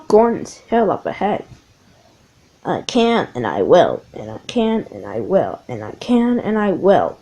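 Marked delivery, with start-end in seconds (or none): 2.6-7.2 low, loud chugging chant; puffing James. Acted. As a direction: puff it out like a steady engine. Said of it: "puffed James".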